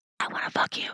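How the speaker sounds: close, breathy whisper. Retelling what was said into his ear: retelling a whisper. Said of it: "I then whispered in his ear".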